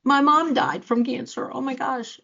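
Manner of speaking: high, loud alarmed outburst; panicked outburst. Retold or imitated. Coach imitating a friend panicking over cancer news. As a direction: blurt it in rising panic. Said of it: "Do you automatically go".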